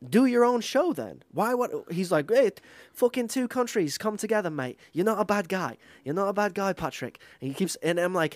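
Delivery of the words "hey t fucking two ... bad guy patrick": mock Australian accent. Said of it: "he has a fucking shit accent".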